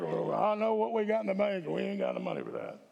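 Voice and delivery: lightly voiced stingy committee man; mock worried treasurer; finance committee voice. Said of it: "finance committee just got really upset".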